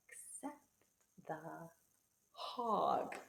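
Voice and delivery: suspense whisper. Acted. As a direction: hush it for suspense. Suspenseful read-aloud pause.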